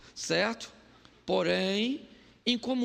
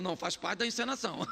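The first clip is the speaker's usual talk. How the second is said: soft quick backpedal; 5 dB quieter, faster than usual. Retold or imitated. Husband downplaying quickly.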